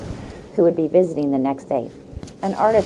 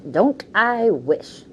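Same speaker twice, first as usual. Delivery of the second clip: wistful squirrel; 5 semitones higher, much slower than usual. Acted. Squirrel replies.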